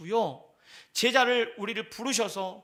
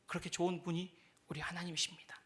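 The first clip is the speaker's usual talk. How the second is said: whisper; 10 dB quieter than usual. Real, not acted. Preacher's hushed conclusion.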